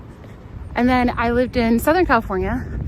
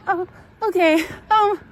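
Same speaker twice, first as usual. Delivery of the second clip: mock surprised; 8 semitones higher than usual. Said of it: "And I was like".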